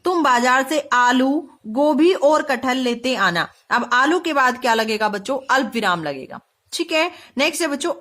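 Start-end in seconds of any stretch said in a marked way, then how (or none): 0.0-3.5 slow reading with a break after "आलू"; pause at comma. Shown as a demonstration. Teacher reading aloud so pupils hear the comma, slow with a pause. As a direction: hold "आलू", pause briefly, then go on. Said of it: "बोलते ही यानी वाक्य पढ़ते ही हमें पता".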